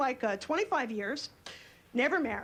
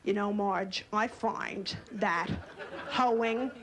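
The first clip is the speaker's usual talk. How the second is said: mock pioneer woman chat; 4 semitones lower, slower than usual. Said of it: "women in the eighteen eighties weren't like".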